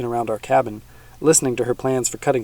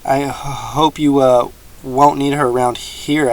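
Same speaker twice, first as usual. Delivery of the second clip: frightened; 2 semitones higher, 5 dB louder, slower than usual. Acted. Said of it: "frozen with fright".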